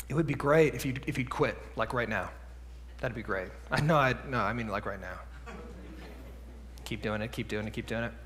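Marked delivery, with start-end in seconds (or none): 0.1-3.5 put-on much softer and lower, sugary calm to a child; quiet, calm voice. Parent calmly asking a misbehaving child to stop, hushed and sweet. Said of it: "in a quiet, calm voice". 6.8-8.1 mock defiant kid. Child ignoring parent, mocked.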